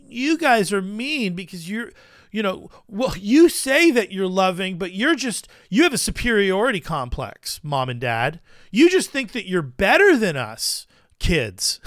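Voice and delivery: lightly voiced accusing kid; a hint of a child's protest; whining child. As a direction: complain to parents like an aggrieved child. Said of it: "it's like a child trying to turn the tables on the parent".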